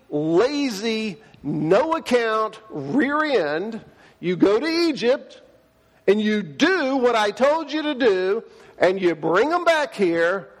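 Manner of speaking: a hint of an exasperated father laying down the law, slowing on the insults; lightly scolding dad voice, mock stern; voicing God like dad. Pastor mimicking his dad scolding a hesitant Moses, mildly stern. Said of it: "That's how my dad says it".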